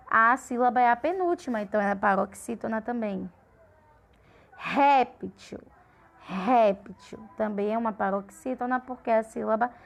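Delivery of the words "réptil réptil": "Réptil" with a strong opening "Rép"; stress on penultimate. Shown as a demonstration. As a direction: punch the first syllable of "Réptil". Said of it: "de maior intensidade é a penúltima".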